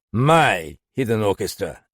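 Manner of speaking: mocking, irritated echo; snapped. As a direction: spit the phrase back at him. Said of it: "Galland snapped".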